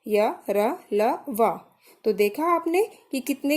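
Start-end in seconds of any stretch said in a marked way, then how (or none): 0.1-1.6 य, र, ल, व each said short, with little air; quick short sounds. Shown as a demonstration. Teacher inviting students to try, य, र, ल, व kept short. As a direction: say य, र, ल, व briefly, one by one. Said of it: "जल्दी हमने इसका उच्चारण किया".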